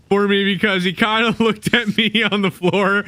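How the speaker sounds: laughing through the words; laughing while telling the chase. Real, not acted. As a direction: giggle it out as you tell it.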